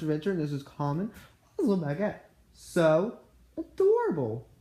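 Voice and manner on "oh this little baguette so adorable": gushing. Real, not acted. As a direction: coo it like the toy is the cutest thing ever. Cooing over a tiny toy.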